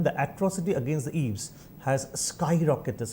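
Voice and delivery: slow, spaced dictation; slowly. Shown as a demonstration. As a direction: say it slowly for the class. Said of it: "আস্তে আস্তে বলছি".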